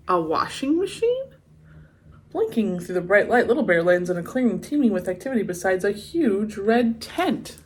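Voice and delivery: lively storybook read-aloud; story narration. A narrator's reading. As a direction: read it like a bedtime picture book. Reading the picture book aloud.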